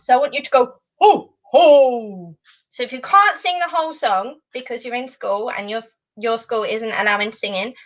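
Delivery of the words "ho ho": Santa ho ho. Shown as a demonstration. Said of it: "do your best Father Christmas impression".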